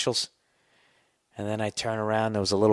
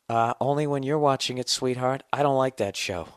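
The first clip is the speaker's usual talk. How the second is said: mildly mocking himself; 5 semitones higher than usual. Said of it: "his reply in scene".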